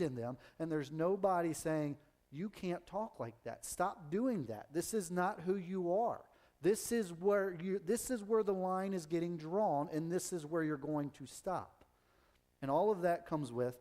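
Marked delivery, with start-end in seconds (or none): 2.3-11.8 slow, measured reprimand, slightly raised; firm correction. Acted. Someone correcting a child who talks negatively, firm reprimand. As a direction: lay down the rule word by word.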